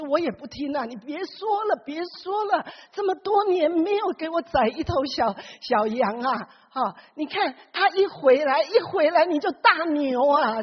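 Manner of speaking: mock-angry complaint, lightly acted; resentful son. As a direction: protest to father that it's unfair. Elder son complaining to father.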